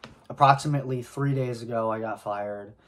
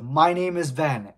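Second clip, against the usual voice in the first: retold scream; 4 semitones higher, 5 dB louder than usual. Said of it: "I screamed".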